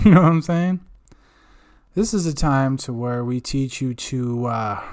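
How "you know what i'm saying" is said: laughing, louder repeat; giggly louder ask. Real, not acted. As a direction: laugh through the catchphrase. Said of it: "repeats it laughing".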